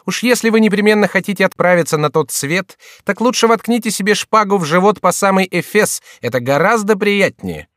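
high, loud jeering advice; mocking jester. A narrator's reading. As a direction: sneer at the desperate courtier in a high voice. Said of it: "сказал Шико". (высокий насмешливый голос шута)

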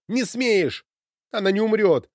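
furious cry. Acted. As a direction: cry it out, refusing to believe. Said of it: "крикнула она".

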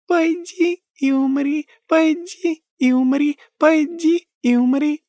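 put-on very high, slow singsong child; childish giggle. A narrator's reading. Ghost girl chanting with a child's laugh. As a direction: chant it playfully. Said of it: "сменилась лёгким детским смехом".

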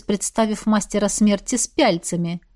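ordinary delivery

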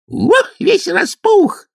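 high, slow mocking wail; teasing kikimoras. A narrator's reading. Kikimoras mock Kuzka's complaints, high drawn-out wail. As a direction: drag it out in a shrill mocking whine.

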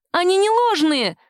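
high, loud shriek; squealed. A narrator's reading. Accused woman shrieks denial at the captain. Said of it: "взвизгнула".

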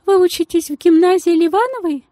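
gushing society lady in a tiny high voice; thin high voice. Acted. The lady asks.

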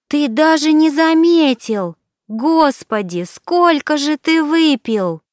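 high, loud, stunned exclamation; shocked. Acted. Alina realizes Turanov didn't notice, shocked. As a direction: disbelief bursting out of her.

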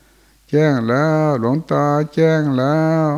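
slow, high, drawn-out wail; eerie wailing voice. Retold or imitated. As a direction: echo the night cry, drawn out. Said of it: "ดัง". (เสียงโหยหวนยืดยาว)

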